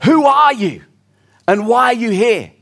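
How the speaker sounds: a Roman guard calling out to a stranger; sentry calling out. Acted. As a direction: call it out like a sentry on watch. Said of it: "he hears a voice calling out".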